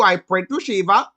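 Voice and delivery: put-on calm Indian accent, said matter-of-factly. Hindu man explaining his faith, calm Indian accent. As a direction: state the prayer plainly in an Indian accent. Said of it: "he was like".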